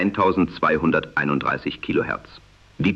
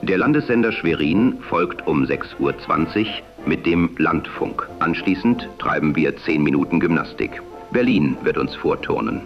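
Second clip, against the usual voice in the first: am radio. Acted. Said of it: "die dem damaligen Sprechstil nahekommt".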